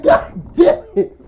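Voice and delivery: very high, loud drawn-out cry; hammed-up high yell of dismay; shocked outburst. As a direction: wail it slowly in comic horror. Climax of shocked discovery.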